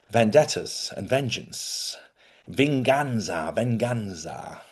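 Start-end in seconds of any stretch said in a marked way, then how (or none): 2.5-4.6 Venganza said slowly the Spanish way, ven-GAN-za with a rolled, open a; slow, careful Spanish Venganza with a soft g; Spanish word. Shown as a demonstration. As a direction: Venganza in Spanish sounds, drawn out. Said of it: "the Spanish word for revenge".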